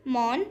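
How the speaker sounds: मॉन said as a separate first syllable; first syllable of मंकी on its own; split into syllables. Shown as a demonstration. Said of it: "यहाँ पर words के syllable given हैं".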